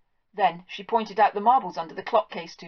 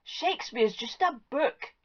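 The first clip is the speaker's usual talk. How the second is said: deadpan farmer; 5 semitones higher, 4 dB quieter, slower than usual. Acted. Pitlarg deadpan explanation.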